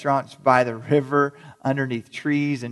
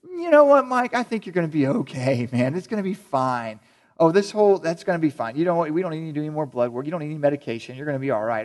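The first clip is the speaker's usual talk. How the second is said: overly gracious doctor. Retold or imitated. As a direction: play a doctor brushing it off. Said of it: "my doctor ... and go".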